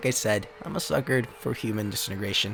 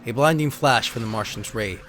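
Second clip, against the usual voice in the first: dramatic narrator reading out card backs; steady storyteller read of alien invasion cards; card text reading. Acted. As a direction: read it like an old sci-fi trailer. Reads trading card text aloud.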